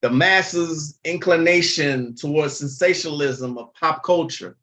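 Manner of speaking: lightly pompous jargon read; mock-lofty phrasing in near-plain voice; pompous big-word voice. Shown as a demonstration. Mimicking social media gurus to viewers, lightly pompous. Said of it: "How would y'all feel if I started talking like that?".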